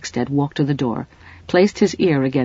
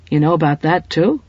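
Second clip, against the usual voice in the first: gasped; 4 dB louder than usual. Acted. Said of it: "gasped Farrell".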